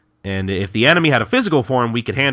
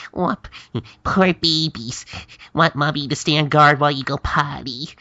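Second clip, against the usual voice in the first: mocking; 6 semitones higher than usual. Kagura teasing Hichikata like a toddler, mocking. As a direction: coo mock pity as if to a toddler. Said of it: "start mocking Hichikata".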